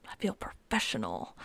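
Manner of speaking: deep, quiet announcer voice, playful; mock radio host voice. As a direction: drop low like a late-night radio host. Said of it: "I feel like a radio host".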